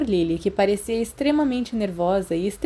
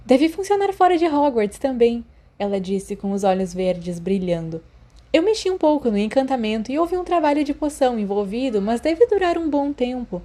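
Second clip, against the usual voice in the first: higher, chatty schoolgirl voice; eager girl; 4 semitones higher than usual. Acted. Lily explains the acetate gift to Remus, high and chatty. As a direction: chatter on proudly, a bit higher.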